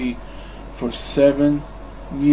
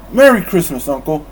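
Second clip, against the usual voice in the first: called greeting; 3 semitones higher, 7 dB louder, faster than usual. Acted. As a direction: call it back cheerfully. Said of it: "Fred called".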